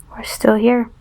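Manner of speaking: deadpan whispered lament. Real, not acted. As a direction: whisper it like a sad confession. Lonely joke about waiting.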